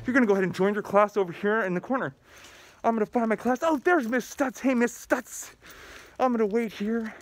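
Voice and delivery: a grown-up lightly playing an eager pupil; eager student role-play. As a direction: play an excited student showing the rules. Principal acts out a student's day.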